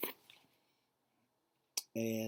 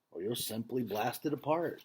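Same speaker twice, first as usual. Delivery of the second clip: gentle father; 3 dB louder than usual. Acted. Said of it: "a smile in his voice".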